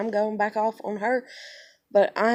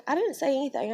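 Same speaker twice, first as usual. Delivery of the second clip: innocent denial; 6 semitones higher, faster than usual. Retold or imitated. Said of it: "And she's like".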